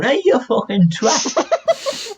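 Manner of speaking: high, hammed-up yell across the sea, laughing; mock screaming insults. Giants shouting insults across the ocean, mock high yell. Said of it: "they would literally scream at each other".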